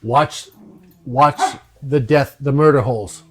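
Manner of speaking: shouted warning in character, easing off after the first cry; yelling out. Acted. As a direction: call out an urgent warning to the party. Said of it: "he yells out".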